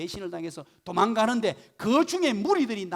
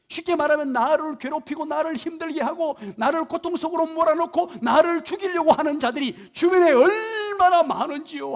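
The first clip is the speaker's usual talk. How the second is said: impassioned preaching; 6 semitones higher, 8 dB louder than usual. Real, not acted. Preacher pleads David's distress.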